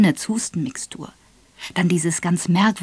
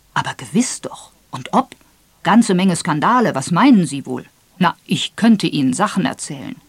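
lightly voiced major, eager to tell; emphatic hint of a boastful storyteller; gossiping old major; 5 dB louder than usual.

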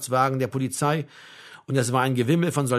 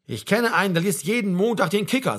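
higher, eager soldier's chatter; chattering comrade; 4 semitones higher than usual. Acted. Baumann talks at Frank in the corridors, chattering. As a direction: launch into an anecdote.

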